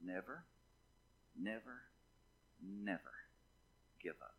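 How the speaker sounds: low, hushed preacher's own voice, pausing after each never; solemn exhortation. Real, not acted. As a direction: gently urge the congregation, word by word. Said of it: "I'm saying to you from God this morning".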